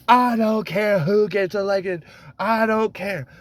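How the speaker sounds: high-pitched mimicked brush-off; mock dismissive quote. Mimicking a politician's dismissive reply.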